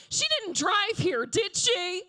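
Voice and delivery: high, mocking judgy voice; high sarcastic gossip; snide partygoer. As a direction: sneer it like a gossiping guest. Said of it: "somebody would go".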